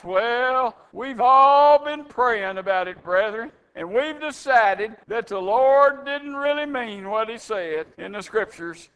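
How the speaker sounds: a lightly voiced, pious elder board announcing to the church; mock elders. Preacher mimics elders announcing a change to the congregation, lightly hammed-up pious tone. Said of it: "the eldership gets up and they announce".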